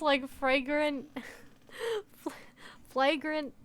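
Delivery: "like, fragrant" drawn out very slowly; slow stumble. Real, not acted. Streamer groping for "flagrant", slow and halting. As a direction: hunt for the word.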